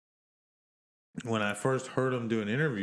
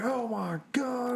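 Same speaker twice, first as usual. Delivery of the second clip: Aussie Man impression; 12 semitones higher, much slower than usual. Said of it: "He's like".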